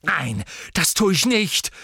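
high, loud furious cry; Ginny screaming at Ron; beside herself, shouting. Acted. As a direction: scream back out of control. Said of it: "schrie Ginny außer sich".

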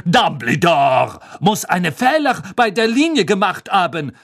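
dismissive high shrugging tone. Acted. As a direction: shrug it off loudly. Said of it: "sagte Madame Maxime achselzuckend".

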